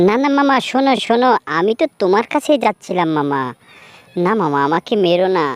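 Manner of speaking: high, pleading fox begging for mercy; panicked little fox pleading; frightened pleading. Acted. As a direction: beg the tiger for your life. Fox begs tiger not to kill.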